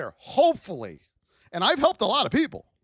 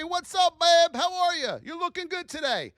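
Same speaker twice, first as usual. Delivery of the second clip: friendly chat greeting; 3 semitones higher than usual. Pretend. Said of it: "I go in there and say".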